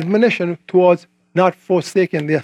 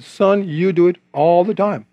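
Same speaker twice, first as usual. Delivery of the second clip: slow, measured rebuke, lightly voiced as God; a slow, deliberate reproof with drawn-out words; slower than usual. God answers the cocky preacher, slow mild rebuke. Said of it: "And God said".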